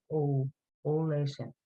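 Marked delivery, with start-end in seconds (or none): 0.1-0.5 ALL said with a long "aw" sound; long vowel. Shown as a demonstration. Teacher showing the class the O fada, long vowel. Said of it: "like a long sound".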